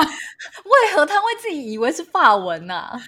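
slow, high, loud laughing question. Real, not acted. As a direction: ask while laughing in disbelief. Laughing disbelief.

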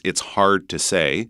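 North American "hard" with a strong R; North American accent. Shown as a demonstration. Teacher contrasting two accents, North American accent. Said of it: "is North American".

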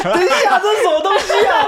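high, laughing half-shout; laughing at a story he doesn't remember; laughing disbelief. Real, not acted. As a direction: laugh through it, can't believe it.

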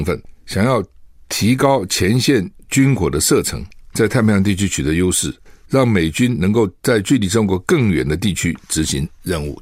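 news read. Acted. Reads a news item. (新闻播报式朗读)

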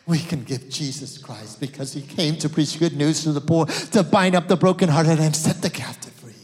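loud, ringing sermon proclamation; full-force preaching. Acted. Pastor preaching hope to the congregation, loud. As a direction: proclaim it with fire.

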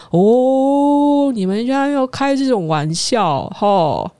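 half-mocking, slow scolding of a silly joke; relieved friend. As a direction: friend lightly teasing about the prank, relieved and slow. Friend relieved, believes it's joke.

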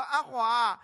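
loud, high granny coaxing in Taiwanese; loud, high cooing grandma soothing a baby; grandma coaxing child. Retold or imitated. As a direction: hush the crying toddler like a granny. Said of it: "跟那个小孩讲说".

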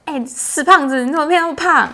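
high, loud mock aunt teasing. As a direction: play the blunt aunt who jokes about weight. Imitating aunts teasing her. (模仿阿姨大声调侃)

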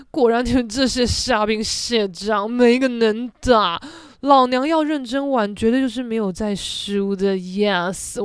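smug, half-hammed bragging; cocky inner boast. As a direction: puff up like the queen of the party. Inner boast, sizing up rivals.

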